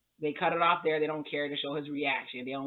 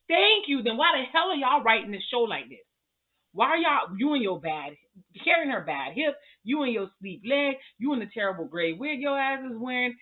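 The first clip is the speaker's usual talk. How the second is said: louder, higher fired-up rant; exasperated loud tirade; worked-up rant; 6 semitones higher, 5 dB louder than usual. Real, not acted. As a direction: vent at the writers, loud and high. Ranting at the show's writers.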